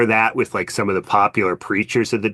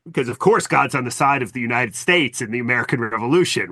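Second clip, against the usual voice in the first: lightly mocking, slightly raised voice; mildly put-on credulous questioner; facetious; 3 semitones higher than usual. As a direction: feign earnest certainty, tongue in cheek. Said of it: "I'm saying that facetiously".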